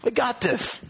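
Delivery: high, light reassurance; reassuring. Acted. Jesus encouraging worried disciples, light and reassuring. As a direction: lift them up with confidence. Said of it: "He said".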